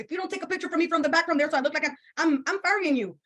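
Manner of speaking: mock threat. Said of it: "I'm telling my videographer".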